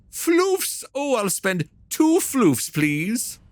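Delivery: high, playful little-customer voice; high-pitched cutesy request. Pretend. Playful cutesy purchase of floofs.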